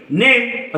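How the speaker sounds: नेम with a clear ay vowel; ay sound. Shown as a demonstration. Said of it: "असा याचा उच्चार आपण करतो". (नेम मधला ए स्पष्ट उच्चारून)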